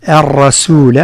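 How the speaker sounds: الرسول with a thin sin and lam; light sin and lam. Shown as a demonstration. Teacher warning against heavy sin and lam. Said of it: "الحذر من تفخيم السين واللام".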